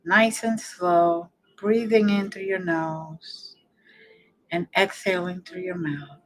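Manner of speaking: unhurried meditation guide, long pauses between phrases; guided meditation. Real, not acted. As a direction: ease the listener into relaxing, phrase by phrase.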